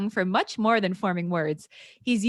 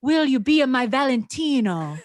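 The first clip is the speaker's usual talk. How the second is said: louder Italian seduction; a hint of a romantic Italian lover; Italian accent; 4 semitones higher, 5 dB louder than usual. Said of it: "thick accent".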